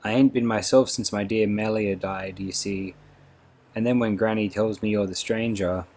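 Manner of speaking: lightly voiced remorseful old trooper, rustic speech; broken old soldier. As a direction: apologise humbly like a shaken old soldier. Mr Bow voiced in the story.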